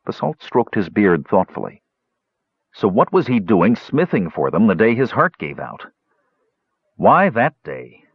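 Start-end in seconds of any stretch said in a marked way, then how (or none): 2.7-8.0 grieving questioning. Acted. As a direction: plead for a reason, lightly pained. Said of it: "Flint heard his nephew's grief".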